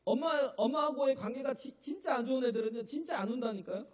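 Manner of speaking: insistent pulpit emphasis; emphatic preaching. Real, not acted. Preacher presses his point.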